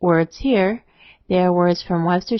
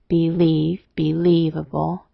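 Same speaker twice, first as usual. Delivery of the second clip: "believe, believable" with the weight on "lieve"; accent the "lieve" part of believe and believable; stress on LEAVE; slower than usual. Shown as a demonstration. Teacher showing where Old English words take accent, stressed "lieve". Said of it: "the main part of the word is accented".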